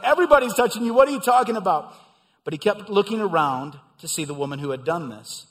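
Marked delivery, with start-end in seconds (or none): 0.0-1.9 louder, higher incredulous disciple; exasperated disciple. Acted. Disciple answering Jesus, loud incredulous scoff. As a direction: scoff at the question. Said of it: "The disciple's like".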